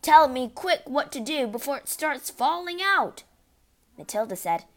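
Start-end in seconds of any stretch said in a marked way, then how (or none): 0.0-3.2 high, loud, pleading; panicked wail. A narrator's reading. Father pleading before hair falls out, wailing. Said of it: "wailed the father".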